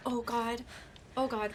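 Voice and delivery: breathless whisper; whispered oh god. Real, not acted. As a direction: whisper it in dismay. Dismayed at a fall.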